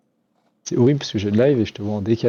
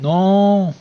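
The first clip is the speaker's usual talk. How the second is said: high indignant no; 10 semitones higher, 6 dB louder than usual. Real, not acted. Protests being called bad.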